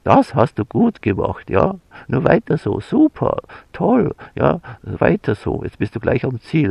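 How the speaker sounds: high, lively encouragement with pitch jumps on super and toll; enthusiastic praise. Shown as a demonstration. Praising someone nearing the goal, enthusiastic cheering. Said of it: "Wenn ich sage".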